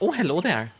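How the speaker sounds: attempted Scottish accent slipping into Irish; Irish-leaning Scottish accent. Shown as a demonstration. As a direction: lilt it like Irish. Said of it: "a little bit more Irish".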